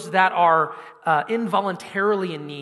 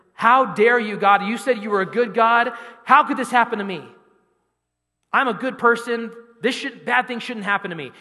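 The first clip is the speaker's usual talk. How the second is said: indignant complaint; 4 semitones higher, 5 dB louder than usual. Acted. Hurt believer accuses God.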